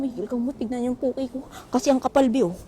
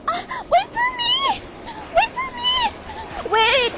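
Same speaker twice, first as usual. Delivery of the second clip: very high, crying shout after a leaving bus; desperate shout; slower than usual. Real, not acted. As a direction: scream at the bus to wait for you. Chasing the bus, calling out. (sigaw na napakataas, habol sa bus)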